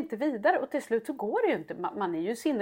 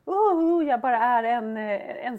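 mock despair; slower than usual. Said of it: "Och man bara".

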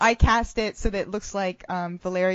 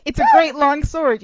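laughing; 7 semitones higher, 10 dB louder than usual. Real, not acted. Laughing at own joke.

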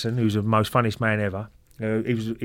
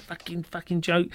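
slow, higher mock-French swearing; Wenger; 6 semitones higher, slower than usual. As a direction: imitate a French manager cursing, pitched up. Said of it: "in a French accent".

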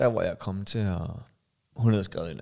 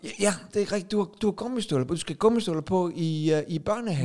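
a higher, humouring father voice; patient dad; 6 semitones higher than usual. Acted. Father answering the toddler, higher and humouring. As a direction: soothe the toddler along.

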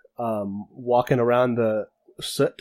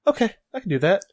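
put-on Australian accent; 9 semitones higher, faster than usual. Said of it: "I can't do an Australian accent very well".

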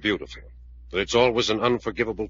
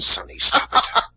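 sharp command; 5 dB louder, slower than usual. Acted. Man checks her hysterics.

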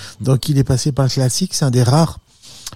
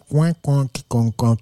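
imitated muted guitar chop; 3 dB quieter, slower than usual. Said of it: "tu joues avec le médiateur".

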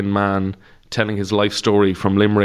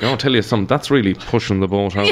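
head tilted, shoulder raised, knowing aside; mock-grave Irish italics, half laughing; dry understated Irish remark; wry Irish understatement. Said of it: "you say something like".

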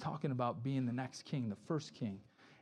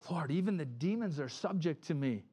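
lightly self-important, leaning on "me"; mock boastful pride. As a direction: imitate someone proud of being used. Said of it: "This pride is surfacing".

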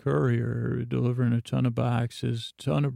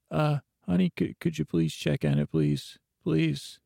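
higher, hesitant mock plea; imitated pleading; 4 semitones higher than usual. Husband asking his silent wife to check, mildly pleading imitation. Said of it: "she does the old silent thing".

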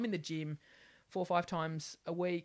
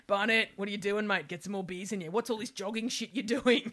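louder, laughing coach scolding her weight loss; bossy footy coach; 4 semitones higher, 6 dB louder than usual. Retold or imitated. Her coach telling her off for slimming, loud and laughing. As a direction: bark orders like a blokey coach. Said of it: "that coach in my life".

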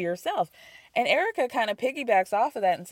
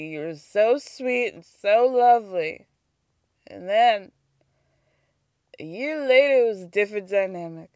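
a hint of Southern in a retold confrontation; Southern accent; 3 semitones lower than usual. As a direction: quote her with a slight Southern lilt. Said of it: "I'm doing the Southern accent".

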